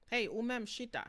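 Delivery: the longer way you needn't say; over-explained order; wordy command. Shown as a demonstration. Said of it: "I don't have to say".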